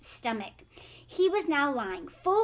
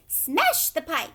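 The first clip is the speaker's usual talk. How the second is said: loud, slow yelled order; yelling; 5 semitones higher, 7 dB louder, slower than usual. A narrator's reading. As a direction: yell the order. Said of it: "yelled Missus Gloop".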